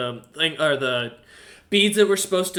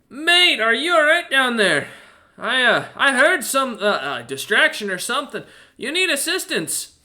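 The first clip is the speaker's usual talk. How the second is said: loud, high Australian bellow from above; Australian accent; 7 semitones higher, 4 dB louder than usual. Acted. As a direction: call down a ladder in a thick Australian accent. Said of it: "It's almost Australian in".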